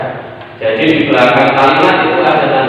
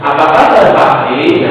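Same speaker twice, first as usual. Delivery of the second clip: "Apa kabar" a little higher, "Fahri" falling back down; high and low tones; slower than usual. Shown as a demonstration. Teacher showing pupils high and low pitch in a question. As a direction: sing the tune up then down. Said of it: "ada nada tinggi, ada nada rendah".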